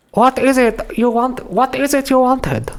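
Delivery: very high, slow mock Asian accent; caricatured Asian accent. Librarian asking a visitor their business, caricatured Asian accent. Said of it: "do that as general racist Asian accent".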